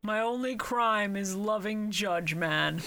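slow, solemn, overplayed; mock solemn confession. Friend mock-confessing his love for Judge Man. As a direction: confess it like a tragic hero.

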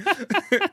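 high, real burst of laughter; high-pitched amused laugh. Real, not acted. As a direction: crack up at the joke. Co-host cracks up at the joke.

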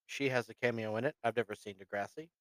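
talking through hiccups. Real, not acted. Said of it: "I got the hiccups".

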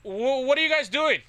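high, loud, stammering challenge; retold yell. Patrol agent yelling at the teens in the woods, high and loud. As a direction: call out, half startled, half demanding.

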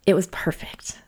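hushed whisper, savoring it. Real, not acted. Remembering her favorite disclosure, a soft whisper. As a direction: breathe "it was perfect" as a soft whisper.

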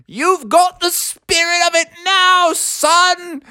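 high, proud owl voice; high-pitched encouraging old owl; cheering owl. A narrator's reading. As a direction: egg him on as a zany bird.

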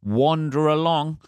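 a light touch of a dopey prey voice; dumb prey. Retold or imitated. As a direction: mildly voice an oblivious animal strolling into danger. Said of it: "They always do something stupid".

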